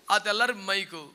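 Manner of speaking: usual speaking voice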